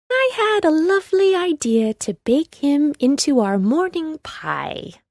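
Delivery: sweetly wicked, sliding down at the end; old witch. A narrator's reading. Witch tells Gretel her plan, sweet and sinister. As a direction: relish the cruel idea. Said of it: "replied the old woman".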